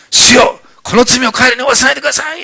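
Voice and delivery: high, loud pleading cry. Acted. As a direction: cry out a plea for mercy on the killers. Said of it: "最後に大声で言った言葉".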